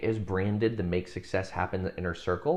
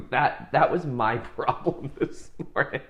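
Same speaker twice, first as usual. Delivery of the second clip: higher-pitched, laughing through the words; 7 semitones higher than usual. Real, not acted. Speaker admits a silly breakfast problem to viewers, laughing. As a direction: let real amusement break up the line.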